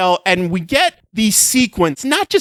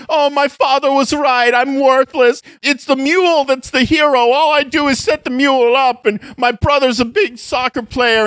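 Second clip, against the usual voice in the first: whiny self-pity, a little higher; hammed-up moping hero; mock melodrama; 4 semitones higher than usual. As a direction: overwrought lament, half-mocking. Mocking melodrama of the film.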